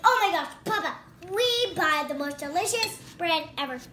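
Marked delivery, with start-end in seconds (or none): none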